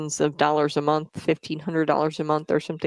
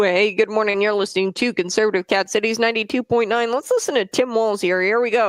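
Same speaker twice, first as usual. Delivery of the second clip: upbeat morning radio host; chirpy DJ intro, higher; 5 semitones higher than usual. Pretend.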